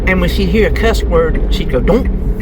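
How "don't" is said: mock electronic "don't" blip; imitated device noise. Speaker mimics Alexa hearing a cuss word, imitated noise. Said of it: "It'd make a little don't noise".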